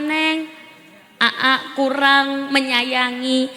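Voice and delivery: drawn-out pleading husband; slow sweet apology. Pretend. Husband sweet-talking his wife before a punchline, slow and tender. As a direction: coax her gently, word by word.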